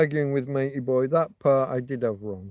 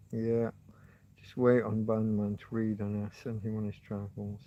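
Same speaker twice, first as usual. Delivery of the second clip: whispered aside; 3 semitones lower, 7 dB quieter than usual. Real, not acted. Quiet aside while banning someone.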